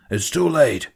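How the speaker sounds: a hissed, whispered snap; snapped. Acted. The captain refusing to turn back, whispered snap. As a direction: bite it off in a tense whisper. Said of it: "he snapped".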